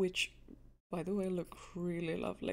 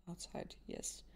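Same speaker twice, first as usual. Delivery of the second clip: outside whispered, much softer and lower; whispered to herself; 7 dB quieter than usual. Real, not acted. Gamer murmuring to herself while reading the scene, whispered. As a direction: breathe the word outside almost silently. Repeating word to herself, fading.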